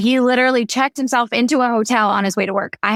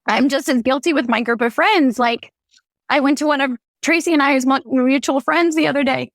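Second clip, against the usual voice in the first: higher, choked-up retelling; holding back tears while telling it; tearing up; 5 semitones higher than usual. Real, not acted. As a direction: voice lifted with real emotion on the edge of crying. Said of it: "I'm gonna tear up thinking about this".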